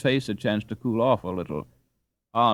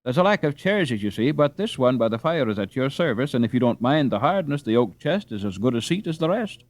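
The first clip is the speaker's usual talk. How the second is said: a lightly higher, louder apologetic housewife; fussing dame; 4 semitones higher, 3 dB louder than usual. Acted. Dame apologizing to the boys for the bare room, fussy. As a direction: make do cheerfully, a bit flustered.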